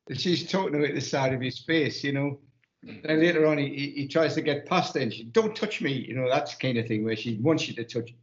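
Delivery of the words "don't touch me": high-pitched mock squeal of protest; hammed-up offended woman pushing him away. Retelling a TV scene, offended woman fends him off in high mock protest. Acted TV character fending off man.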